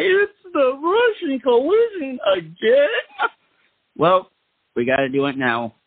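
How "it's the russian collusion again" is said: high, whining mock voice; mocking whiny liberal. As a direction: squeal it like a complaining liberal. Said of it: "A lot of the liberals are gonna say".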